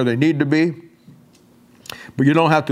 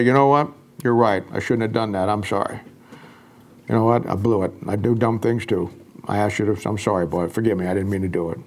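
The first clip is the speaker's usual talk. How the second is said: humble apology; 5 semitones lower, 3 dB quieter than usual. Retold or imitated. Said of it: "I just simply say".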